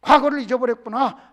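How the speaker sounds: loud, scolding voice of God; loud divine rebuke to David; God rebuking. Acted. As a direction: scold him from on high. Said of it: "하고 지금 책망을 하는 거예요".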